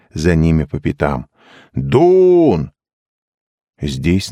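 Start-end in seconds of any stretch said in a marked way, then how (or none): 1.7-2.7 high call across the empty hall; a raised searching call. Acted. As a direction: shout his name to find him. Searching crowd calls for Doon.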